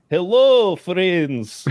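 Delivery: high, loud mock Russian greeting; Russian accent. Lone Russian greeting Wyoming locals, hammed-up Russian accent. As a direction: call it out in a put-on Russian accent. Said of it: "a guy with that accent".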